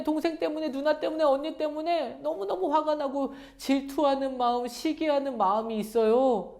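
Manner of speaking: put-on high-pitched, pleading child-like prayer; honest prayer, demonstrated. Shown as a demonstration. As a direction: confess your jealousy to God, listing who upsets you. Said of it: "하나님께 솔직하게 말씀드리는 거예요".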